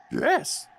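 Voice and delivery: high-pitched creature voice; high impersonated croak of assent; Yoda. Shown as a demonstration. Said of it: "I can actually do a Yoda impersonation".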